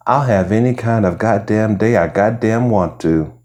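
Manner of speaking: light lilting sing-song. Retold or imitated. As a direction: sweetly sing a rude retort. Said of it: "with a sing-song voice that sounded like coochie coochie coochie coo".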